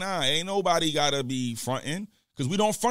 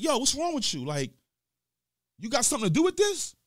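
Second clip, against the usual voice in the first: irate; 10 semitones higher than usual. Retold or imitated. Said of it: "one character's having an irate conversation".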